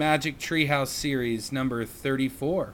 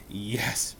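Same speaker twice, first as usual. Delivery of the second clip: soft, low awed reply; breathed; 3 semitones lower, 5 dB quieter than usual. Acted. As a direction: say it under your breath in wonder. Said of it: "breathed Jack".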